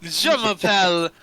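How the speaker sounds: put-on slow, lightly French-accented introduction. Drow introduces himself to Nightshade, slow French accent. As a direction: draw out the name with a touch of French. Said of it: "what if he's French instead".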